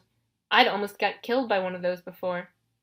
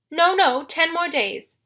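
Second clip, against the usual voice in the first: high, alarmed bride falsetto; fretful falsetto disguise; 8 semitones higher, 5 dB louder, slower than usual. A narrator's reading. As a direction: bargain hastily up in falsetto. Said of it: "in his falsetto voice".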